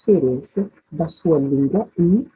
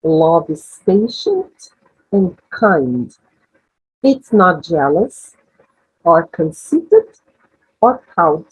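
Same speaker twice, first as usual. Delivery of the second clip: slow, measured English model reading; leitura modelo em inglês; 2 semitones lower, slower than usual. Shown as a demonstration. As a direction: read each phrase slowly, with pauses for listeners to absorb. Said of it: "tentem internalizar esses novos sons". (leitura lenta e pausada em inglês)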